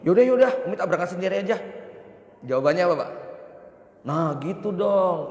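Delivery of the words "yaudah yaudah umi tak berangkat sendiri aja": higher, louder, huffy wife giving in; sulky wife. Retold or imitated. Wife huffily telling her busy husband she'll go alone. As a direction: act the pouting wife. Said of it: "Terus istri ngomong begini".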